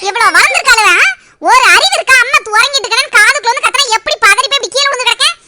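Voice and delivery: loud, fed-up scolding of grown daughters. Acted. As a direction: tell them off hard. Mother scolding daughters after fall. (மகள்களைக் கோபமாகத் திட்டும் அம்மா)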